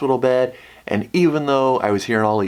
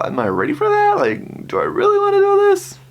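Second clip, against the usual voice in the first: retold doubt; 3 dB louder than usual. Retells own panicked doubts.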